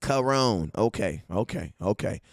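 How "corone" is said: Corone said kuh-ROHN, stress on the second syllable; accepting the correction; corrected name. Shown as a demonstration. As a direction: settle on Corone, ending on rone. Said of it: "The correct way to say it is Corone".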